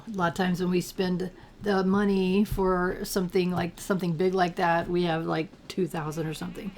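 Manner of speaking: slightly gravelly morning voice; a bit of gravel in the throat, like a cold. Real, not acted. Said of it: "Sorry if I sound a little gravelly this morning".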